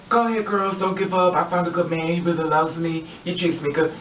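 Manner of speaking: retold boast to the girls; mildly bragging. Woman telling girls she met a good man, mildly bragging. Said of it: "she's bragging the fact".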